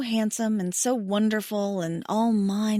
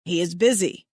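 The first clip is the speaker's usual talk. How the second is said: amused; 3 semitones lower, 4 dB louder than usual. Acted. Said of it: "Rokan says with amusement".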